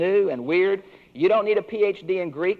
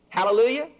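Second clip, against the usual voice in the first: joyful hallelujah; 6 semitones higher, faster than usual. Real, not acted. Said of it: "preacher exults".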